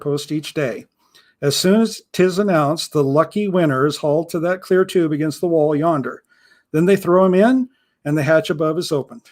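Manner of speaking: a hint of an old pirate explaining the grim routine; understated pirate, matter-of-fact about death; lightly voiced grim pirate.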